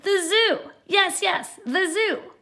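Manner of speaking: excited witch. Acted. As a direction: bounce with glee.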